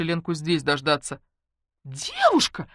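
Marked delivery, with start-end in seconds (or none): 1.8-2.7 high, piercing call; shrill shout right by the ear; wailing cry. Acted. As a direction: call out in sudden alarm. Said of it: "вдруг заголосили у меня над ухом".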